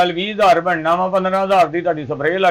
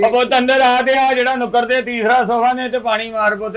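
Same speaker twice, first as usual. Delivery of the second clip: higher, carrying summons; calling out orders; 5 semitones higher than usual. Acted. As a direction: call the boy in to clean. Calls helper to wash sofa.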